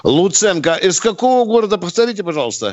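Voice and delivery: talking around a pen held in teeth. Real, not acted. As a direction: speak with a pen clamped in the mouth. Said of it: "ручка в зубах".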